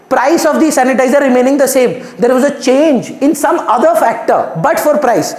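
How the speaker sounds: very slow, word by word; slow dictation. Shown as a demonstration. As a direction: lay it down for students to copy. Teacher dictating definition.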